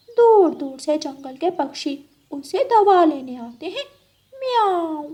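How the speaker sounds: lightly voiced cat ending on a meow; scheming cat. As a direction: coax your friend as a sly cat. Cat persuades the crow.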